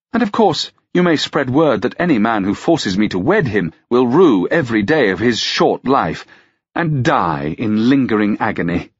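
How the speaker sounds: lightly voiced lady, smiling menace; smiling noblewoman's threat. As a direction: start high and sweetly threaten with a smile.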